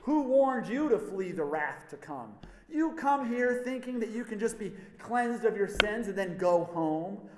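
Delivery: loud, rebuking harangue; John berating the crowd who came to be baptized, angry; angry prophet. Acted. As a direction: tear into the crowd for their complacency. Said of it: "he's so angry".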